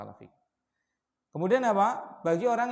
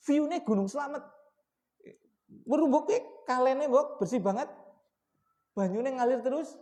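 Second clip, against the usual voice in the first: excited sales pitch; 4 semitones higher than usual. Retold or imitated. Imita al vendedor alabando el terreno.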